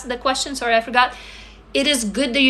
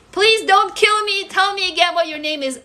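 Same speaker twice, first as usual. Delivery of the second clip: playful pleading; 7 semitones higher than usual. Pretend. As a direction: beg forgiveness for forgetting a name. Begging viewer's pardon over forgotten name.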